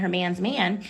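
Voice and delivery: put-on British accent. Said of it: "I don't know if that was their eating".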